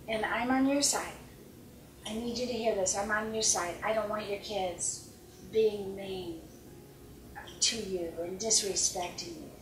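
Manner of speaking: soft, soothing coach voice; quietly validating a frustrated mother; calm reassurance. Shown as a demonstration. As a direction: gently reassure an upset client. Coach demonstrating calm reassuring words.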